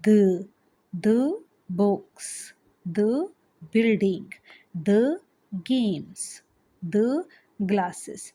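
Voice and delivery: "the" said short as da before books, building, games, glasses. Shown as a demonstration. Teacher shows her class the short da before consonants, said carefully. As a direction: keep "the" a quick da before each consonant word. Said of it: "दा कहाँ pronounce".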